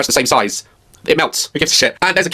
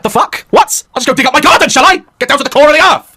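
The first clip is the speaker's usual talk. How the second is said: sarcastic disbelief; 8 semitones higher, 4 dB louder than usual. Retold or imitated. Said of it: "I'm like".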